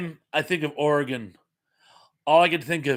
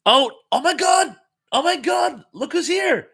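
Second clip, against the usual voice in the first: much higher, louder squeal of joy; thrilled shock; 13 semitones higher, 6 dB louder than usual. Real, not acted. Host sees Nicholas join the stream, thrilled squeal. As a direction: shriek like a long-lost friend walked in. Old friend arrives in chat.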